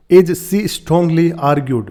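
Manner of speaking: "As she strongly argued" read very slowly, word by word; slow dictation-style read; slow quoting. Shown as a demonstration. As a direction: drag each word out for learners. Teacher reads article phrase.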